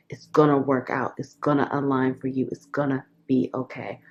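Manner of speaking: gently calm a worried mother-to-be; inner voice reassuring. Acted. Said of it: "her energy is saying".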